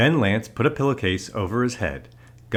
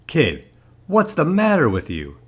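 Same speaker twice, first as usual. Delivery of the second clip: raised, higher-pitched telling-off; exasperated scolding; 7 semitones higher, 4 dB louder than usual. A narrator's reading. Policeman finds Lance sitting in the street, exasperated scolding. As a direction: demand an explanation from the kid.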